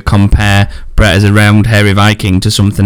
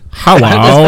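put-on Japanese accent; 3 semitones higher than usual. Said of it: "when you do your Japanese accent".

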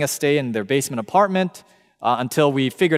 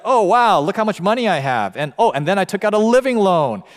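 mock bragging; 5 semitones higher, 4 dB louder than usual. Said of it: "they're like".

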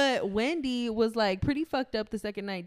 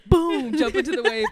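laughing; 4 semitones higher, 9 dB louder than usual. Real, not acted. Excited retelling with laugh.

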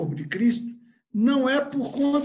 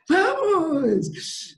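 high, drawn-out keen cheer; eager toddler intonation; 6 semitones higher, 3 dB louder than usual. Acted. Church brother replying to an invitation, imitated toddler eagerness. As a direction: answer like an over-eager little kid. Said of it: "é essa a entonação do corpo de Cristo".

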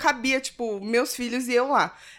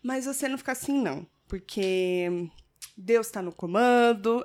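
pious manager quote; 3 dB quieter than usual. Retold or imitated. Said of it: "Aí ele falou".

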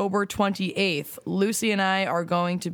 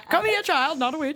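put-on creepy old witch voice; 7 semitones higher than usual. Mimicking creepy old woman.

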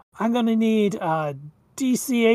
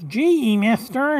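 lightly voiced whiny reindeer; slow, drawn-out nasal whine, lightly done; a hint of a whiny nasal reindeer; whiny, nasally Rudolph; 2 semitones higher than usual. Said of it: "he's got that kinda really whiny, nasally voice".

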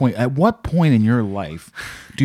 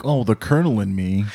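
lightly voiced old lady; genteel old wife. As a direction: speak like a prim old wife. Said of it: "she'll call him something like".

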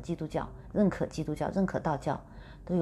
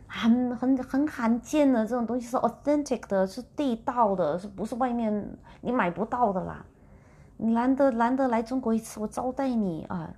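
urging friend; 5 semitones higher than usual. Retold or imitated. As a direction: coax her to eat, won't take no. Friend keeps pressing her. (朋友一再劝吃大闸蟹，高声热情劝说)

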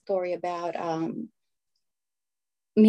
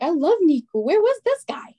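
high, loud, delighted dad; gushing dad; 8 semitones higher, 4 dB louder than usual. Retold or imitated. Daughter retells dad raving about Nico, high and loud. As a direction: play the dad won over, beaming.

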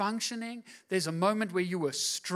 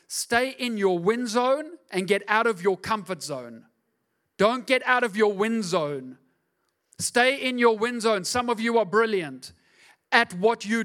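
preaching at full force; 3 semitones higher, 5 dB louder than usual. Real, not acted.

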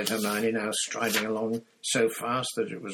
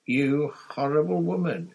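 higher, tightly angry accusation; through gritted teeth; 6 semitones higher, 4 dB louder than usual. A narrator's reading. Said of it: "she said through gritted teeth".

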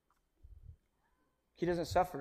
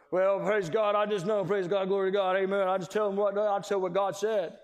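mock showy believer; 4 dB louder than usual. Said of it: "try to act like there's something in front of God".

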